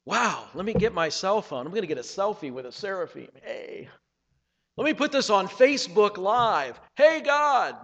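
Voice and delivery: flippant selfie-taking voice, rising to a high Hey, God; mock the careless worshipper; mock casual believer. Preacher mocking casual worshippers, flippant. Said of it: "they would say".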